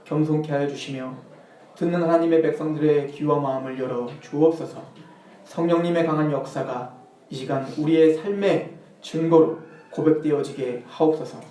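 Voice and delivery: low, hushed prayer voice; public prayer. Real, not acted. Preacher praying before the sermon, low reverent prayer. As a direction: pray softly on behalf of the congregation.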